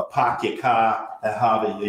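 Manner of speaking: light mock Boston accent, slowed; hint of a put-on Boston accent; fake Boston accent. Shown as a demonstration. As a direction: exaggerate a phony Boston accent a little. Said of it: "he doesn't do that fake".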